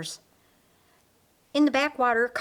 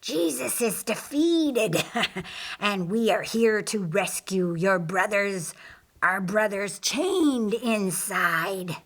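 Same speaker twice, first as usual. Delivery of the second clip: Lucifer feigning care; slower than usual. Acted. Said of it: "Presenting an image of ultimate care for his soldiers".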